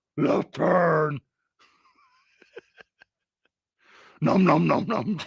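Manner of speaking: high, swooping, chomping monster voice. Acting out a downloadable voice giving turn directions, Cookie Monster voice. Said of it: "a downloadable Cookie Monster voice".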